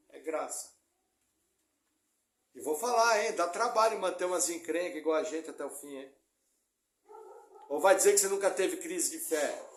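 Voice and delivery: ordinary talk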